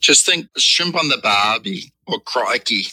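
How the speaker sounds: slow Australian catchphrases; drawn-out Australian accent demo. Shown as a demonstration. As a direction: show a stock Australian accent. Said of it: "do an Australian accent".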